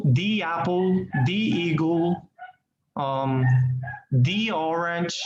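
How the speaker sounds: "the" said as thee before apple, eagle and orange; the before vowels. Shown as a demonstration. Teacher demonstrating "the" before vowel words. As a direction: stretch "the" into a long thee before each vowel word. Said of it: "pronunciation the when the noun ... starts with a vowel".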